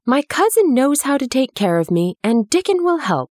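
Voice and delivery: put-on high, lordly young prince giving orders; lightly voiced imperious boy; Rajah voice. A narrator's reading. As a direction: speak like a little raja who expects obedience. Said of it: "in his Rajah voice".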